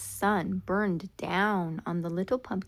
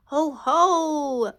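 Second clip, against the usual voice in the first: higher, louder mock ho ho; hearty boastful pretend laugh; little pumpkin laughing proudly; 7 semitones higher, 8 dB louder than usual. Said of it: "laughed the pumpkin".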